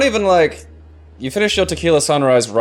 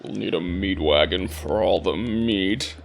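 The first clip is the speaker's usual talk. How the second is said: hardboiled cop; 4 semitones lower, 5 dB quieter, slower than usual. Pretend. Hardboiled cop parody line.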